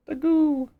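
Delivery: Dagu! cried out high and loud; excited cry. Acted. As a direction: burst out the name Dagu!. Echoes ancestor's name excitedly.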